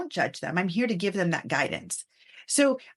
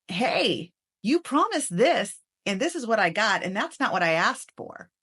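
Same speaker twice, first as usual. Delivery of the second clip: mild demo of an irritated complaint; frustrated tone. Shown as a demonstration. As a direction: show the frustration, not full anger. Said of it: "tonality that shows frustration".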